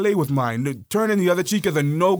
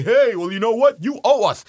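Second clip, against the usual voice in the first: a hint of a smug coloniser; lightly voiced demand, louder; smug former master demanding payment; mock colonizer; 4 semitones higher, 4 dB louder than usual. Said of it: "come back and say".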